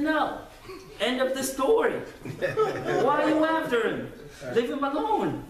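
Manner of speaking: high, loud, laughing through the words; laughing dismissal. Retold or imitated. Caliph laughing off the rude sleeper to his guards. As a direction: brush it off with amused laughter. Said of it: "turns to him and says".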